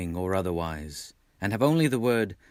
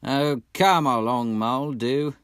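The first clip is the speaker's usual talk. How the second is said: cheerful; 5 semitones higher, 6 dB louder than usual. A narrator's reading. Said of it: "replied the rat cheerfully".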